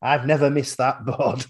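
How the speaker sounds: lightly imitated Yorkshire darts player; a touch of broad Yorkshire; Yorkshire accent. Darts player to stranger, mild Yorkshire accent. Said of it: "proper Yorkshire accent".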